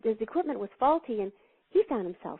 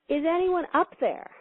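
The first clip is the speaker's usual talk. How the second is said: mild mock shout; 6 semitones higher, 3 dB louder than usual. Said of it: "he shouted out loud".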